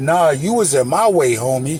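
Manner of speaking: plain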